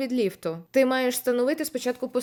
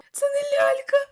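high, loud, crying-out panic; panicked cry; 4 dB louder than usual. Real, not acted. Streamer shouting to the chat in high panic, crying out. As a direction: shriek it as the horror sinks in. Horror game shock moment.

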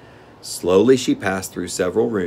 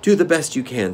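put-on higher-pitched, mildly cheering girl; encouraging; 7 semitones higher, 4 dB louder than usual. A narrator's reading. Girl spurs on the machine man, mildly encouraging. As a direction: gently urge a friend on. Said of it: "said Dorothy encouragingly".

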